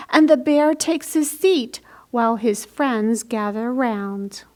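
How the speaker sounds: put-on lively picture-book read-aloud for children; bright storybook narration; story reading. A narrator's reading. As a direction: read it like storytime for little ones.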